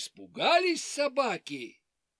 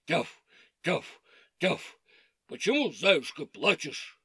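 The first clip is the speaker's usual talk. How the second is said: dog voice; 4 semitones lower than usual. Acted. Dogs bark and ask.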